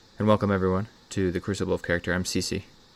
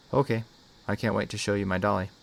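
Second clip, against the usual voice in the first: put-on mildly excited little-girl voice; a child eager to show off, lightly voiced; exclaimed; 2 semitones higher than usual. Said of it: "she exclaimed".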